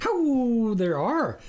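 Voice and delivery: high, loud howl of a reply; a mild mock howl. Stranger howling to the farmer, mild loud howl. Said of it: "the stranger howled".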